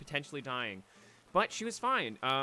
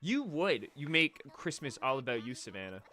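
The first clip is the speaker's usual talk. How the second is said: mock outrage; 2 semitones higher, 4 dB louder than usual. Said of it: "I was like".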